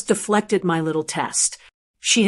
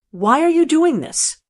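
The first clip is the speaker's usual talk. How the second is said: sharp; 7 semitones higher than usual. A narrator's reading. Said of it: "his voice was sharp".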